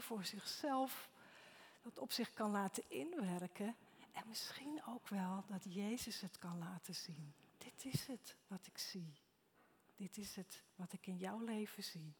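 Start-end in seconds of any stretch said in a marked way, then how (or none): 4.1-7.3 hushed whisper. Real, not acted. Preacher leads quiet reflection. 7.6-12.1 soft voice of Jesus. Acted. Voicing Jesus in quiet prayer.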